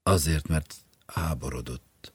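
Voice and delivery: cold scorn; wife's cold, scornful answer; contempt. Acted. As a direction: say it with cold mockery. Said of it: "Megvetés és hideg gúny".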